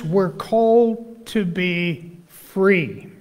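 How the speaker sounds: scripture reading. Acted. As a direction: read the verses with weight. Reads scripture aloud to congregation.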